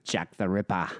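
amused, lightly put-on hoaxer voice; mimicking taped hoaxer.

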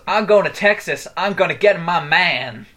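put-on loud cowboy drawl, mixed Asian-English accent. Imitating the stranger at the tram stop, mixed Asian-English accent. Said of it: "a weird mix between Asian accent and normal, like, English accent".

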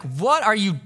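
retold angry outburst. Dad yelling at the son who knocked the table. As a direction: snap at the kid as a joke replay. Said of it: "I lost it on him".

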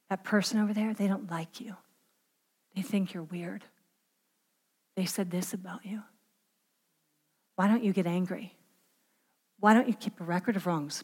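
very soft, low whisper; hushed, insinuating murmur with pauses between jabs. Acted. The enemy planting suspicion about others, whispered. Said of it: "And he whispers".

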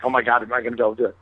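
imitating nerves in a quick rush; mildly nervous. Young cook before his apprenticeship, retold as mildly nervous. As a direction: rattle it off, mock-anxious. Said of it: "He's, like, nervous".

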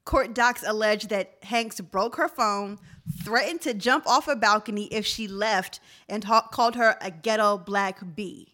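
measured news-style reading; reading article aloud. Real, not acted. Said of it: "and it says".

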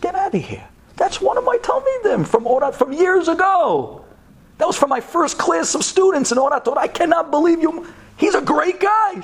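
delighted surprise. Retold or imitated. Rabbi learning she married his old student, thrilled. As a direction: burst out with glad surprise.

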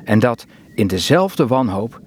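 measured poem recital with long pauses; poem reading. Acted. Reading a favourite poem to the interviewer, poem reading. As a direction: read the verse simply, leaving space between lines.

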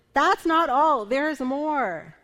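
hammed-up late-night ad announcer; infomercial voice. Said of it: "I kind of feel like an infomercial".

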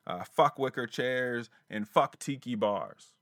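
mock caller. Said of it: "I heard a".

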